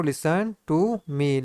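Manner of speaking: each word stretched out slowly for students; slow, deliberate classroom dictation. Shown as a demonstration. Teacher dictating slowly to students, drawn out. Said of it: "super fast".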